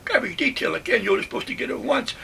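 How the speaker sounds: high, loud outraged protest; indignant disbelief. Retold or imitated. Soldier protesting to himself about a second garbage detail, high and indignant. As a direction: throw up your hands at the unfair order.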